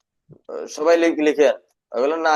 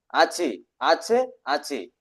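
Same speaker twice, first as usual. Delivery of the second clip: slow dictation; 3 dB quieter, much slower than usual. Shown as a demonstration. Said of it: "এই দুইটা শব্দ".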